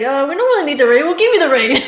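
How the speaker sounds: playful mock quote. Teasing pretend quote about rain.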